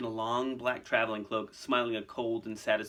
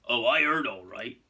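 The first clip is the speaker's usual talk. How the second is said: slight break in voice; 5 dB louder than usual. Acted. Hagrid answering Harry about Hermione, slight break in voice. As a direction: voice catching slightly. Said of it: "a slight break in his voice".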